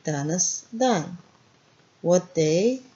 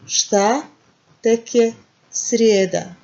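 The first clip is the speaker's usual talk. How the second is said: louder, exasperated complaint; negative feeling; 3 semitones higher, 6 dB louder than usual. Shown as a demonstration. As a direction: sigh at how long the week is. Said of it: "This is negative feeling".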